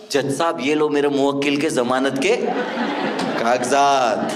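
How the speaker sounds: a hint of a formal lawyer; mock lawyer. A pretend lawyer addressing the judge, lightly voiced. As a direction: hand the papers over like a pompous advocate. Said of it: "कोई होगा ना जो बोलेगा".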